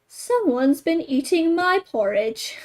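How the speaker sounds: a gentle middle voice for Mama Bear; middle-sized voice. Acted. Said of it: "in her middle-sized voice".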